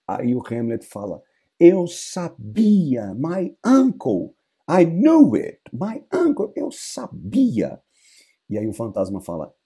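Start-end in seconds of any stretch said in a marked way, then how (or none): 1.6-7.8 high, loud, slow I-knew-it cry; outraged realization. Acted. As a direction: burst out with vindicated fury. Hamlet realizing uncle is guilty.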